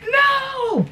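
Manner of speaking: high sharp shout. Retold or imitated. Fighting off the roach with a high shout. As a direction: yell it at the bug. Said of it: "Be like".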